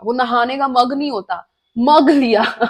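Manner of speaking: normal talking voice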